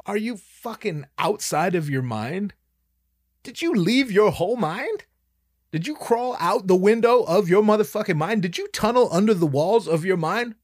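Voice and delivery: incredulous ranting at his friend; mock rant. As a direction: pile the questions on him, building.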